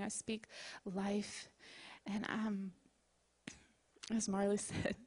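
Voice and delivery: pastor speaking provision over her congregation in prayer. Acted. Leads the closing prayer.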